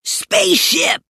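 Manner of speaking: high, breathless shout; winded kid's excited cry; out of breath. A narrator's reading. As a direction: gasp it out after running downstairs. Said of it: "said an out-of-breath Stink".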